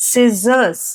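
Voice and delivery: "ಸಿಸರ್ಸ್" with a z in the middle; z sound. Shown as a demonstration. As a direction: say "ಸಿಸರ್ಸ್" as "sizzers", no k. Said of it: "ಆದ್ರೆ ಝ ಅಂತ pronounce ಆಗುತ್ತೆ". ("ಸಿಸರ್ಸ್" ಮಧ್ಯೆ ಝ ಶಬ್ದ)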